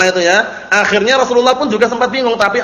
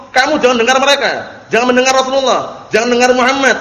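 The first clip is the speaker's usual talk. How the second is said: mock yelling; 4 semitones higher than usual. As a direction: act out calling to a crowd, restrained. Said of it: "Teriak-teriak di belakang manusia ngomong".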